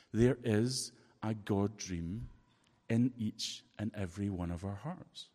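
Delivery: slow, deliberate preaching; lightly slowed sermon emphasis. Acted. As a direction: weigh each word for the congregation. Preaching slowly.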